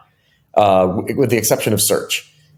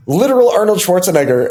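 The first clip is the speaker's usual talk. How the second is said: high-pitched, laughing through the name; real amused laughter; 8 semitones higher, 4 dB louder than usual. Real, not acted. Laughs telling of star's visit.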